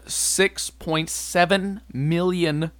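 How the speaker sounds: slow, with million rising at the end like a question; six point seven million, lifting on million; uptalk. Real, not acted. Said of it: "I don't know why I did an upward inflection".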